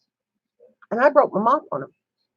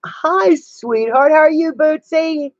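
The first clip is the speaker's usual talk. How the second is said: put-on high, sing-song baby talk to a pet; sweet pet talk; 7 semitones higher, slower than usual. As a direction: coo at the pet in a higher voice. Greeting her pets sweetly.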